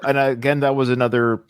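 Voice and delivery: ordinary delivery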